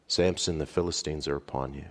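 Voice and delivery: the last warning before his downfall, subdued; hushed final call. Acted. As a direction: let the last call fall quiet and heavy. Final call, hair cut.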